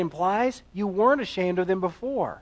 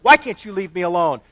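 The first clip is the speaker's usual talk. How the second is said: put-on annoyed teen; 6 dB louder than usual. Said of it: "disgusted look of annoyance, like".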